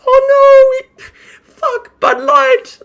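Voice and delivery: very high mock sobbing; hammed-up hysterical despair; Ian Miles Chong. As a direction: whimper it in a tearful falsetto. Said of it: "had Ian Miles Chong effectively going".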